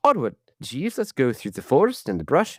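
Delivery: hammed-up British aristocrat; bad British accent. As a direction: do a not-very-good posh British gentleman. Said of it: "I don't have a good British accent".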